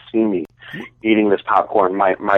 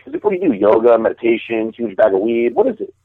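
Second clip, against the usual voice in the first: mocking Tony Stark. Imitating Tony Stark taunting Banner.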